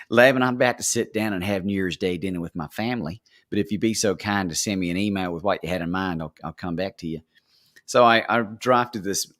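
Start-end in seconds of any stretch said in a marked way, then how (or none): 0.1-7.2 lightly put-on Texan accent. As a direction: play her as a polite Texan. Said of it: "that accent".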